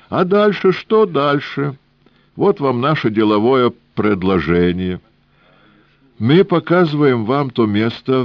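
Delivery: put-on high, sing-song Odessa-style old man; old Jewish man voice. A narrator's reading. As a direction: play the cunning old trader, lilting. Old man deal offer.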